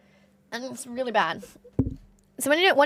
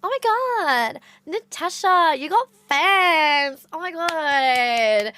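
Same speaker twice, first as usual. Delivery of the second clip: high, loud, very drawn-out squeal of delight; gushing cousin; 5 semitones higher, 3 dB louder, slower than usual. Retold or imitated. Cousin thrilled that Natasha has fans, slow gushing outburst. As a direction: stretch each word in imitated fangirl amazement. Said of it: "She goes".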